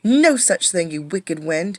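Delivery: a touch of loud defiance on no such thing; defiant. Acted. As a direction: scold the wicked wind. Irene defies the wind.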